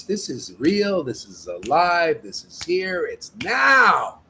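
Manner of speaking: preacher's rousing shout; emphatic shout. Real, not acted. Preacher's climax, emphatic declaration.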